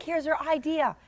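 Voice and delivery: ordinary delivery, nothing marked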